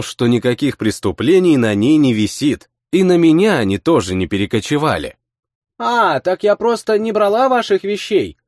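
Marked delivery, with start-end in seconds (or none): 5.8-8.4 put-on smiling girl. A narrator's reading. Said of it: "улыбнулась девушка".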